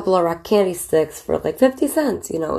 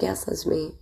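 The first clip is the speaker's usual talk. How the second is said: softer, offhand mock-casual reply; casual and cool; 7 dB quieter than usual. Actress answering starstruck fans, coolly offhand and quiet. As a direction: shrug it off like it's nothing. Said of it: "acting all casual, cool".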